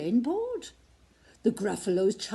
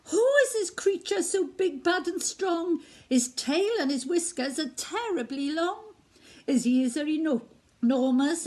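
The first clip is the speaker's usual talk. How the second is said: put-on awed frightened child; 4 semitones higher than usual. Child sees shadow.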